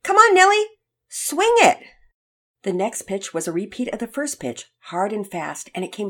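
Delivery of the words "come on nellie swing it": high, loud, sweet cheering; sweetly shouted cheer from a parent; smiling yell. A narrator's reading. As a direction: call out encouragement to a child at bat. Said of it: "smiling sweetly at her and yelling".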